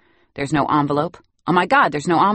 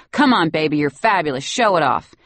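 runway cheering; 4 dB louder than usual. Acted. Cheering boy's pretend fashion show.

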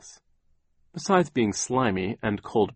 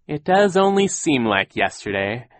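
higher, louder put-on wistfulness; mournful voice; 5 semitones higher, 6 dB louder than usual. A narrator's reading. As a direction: keep up the show of sorrow. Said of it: "began to speak in a mournful voice".

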